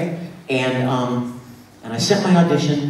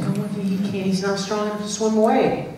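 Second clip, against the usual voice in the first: higher-pitched, rushed mock worry; mock fretting; 4 semitones higher, 4 dB quieter than usual. Storyteller reliving not knowing what to do, mock fretting. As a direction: fret helplessly, lightly hammed-up. Retold fretting over weak Sherman.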